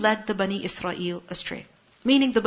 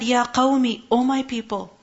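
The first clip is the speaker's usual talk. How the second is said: rising rebuke. Retold or imitated. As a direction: scold the people, climbing as you go. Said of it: "قال, he said".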